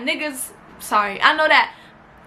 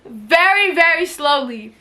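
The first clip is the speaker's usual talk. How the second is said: dragged out. Real, not acted. Drags words describing slow car.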